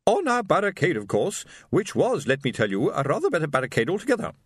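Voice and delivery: high, haughty matron summoning her husband; imperious wife. A narrator's reading. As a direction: sharply call your husband to order. Wife voiced in story.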